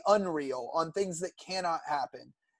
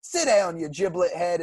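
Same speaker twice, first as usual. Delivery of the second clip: big Texas guy; 5 dB louder than usual. Retold or imitated. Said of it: "big Texas guy on the bus goes".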